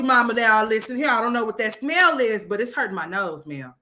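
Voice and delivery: put-on a little kid telling mama off about the smell; imitating a kid. Kid complaining to mama about her smell, lightly voiced sassy child. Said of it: "I would've done told you".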